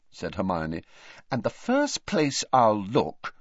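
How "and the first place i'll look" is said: shot back. Acted. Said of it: "she shot at him".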